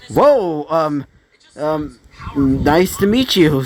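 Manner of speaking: mildly excited, hesitant greeting; a touch of awe, with stumbles; Ruby. Acted. Ruby meeting the new summon, somewhat excited. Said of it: "a somewhat excited, like, you know, um, Ruby".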